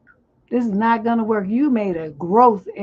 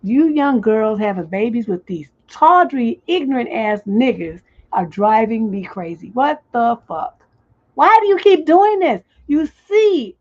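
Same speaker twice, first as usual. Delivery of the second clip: pissed-off rant; 7 dB louder than usual. Real, not acted. Advice host yelling at young mothers, real anger. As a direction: let the anger boil over at them. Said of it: "because I'm pissed".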